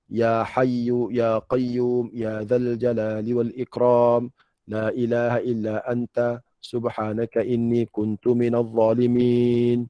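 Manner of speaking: slow, drawn-out supplication with lengthened endings; earnest prayer. Shown as a demonstration. Preacher praying for real with the congregation, earnest slow supplication. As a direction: plead steadily, stretching each phrase. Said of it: "Sungguh-sungguh minta lagu tu".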